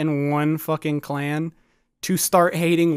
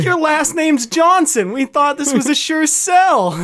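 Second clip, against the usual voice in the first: higher, louder, slow disbelief; mock dismayed Klansman; 7 semitones higher, 5 dB louder than usual. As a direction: drag it out in fake dismay.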